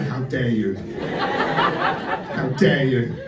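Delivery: put-on drawn-out, offended Italian accent, laughing through it; mock Italian outrage. Italians in the audience taking offence, in a mock Italian accent. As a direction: ham up an insulted Italian accent. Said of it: "There are probably Italians here going".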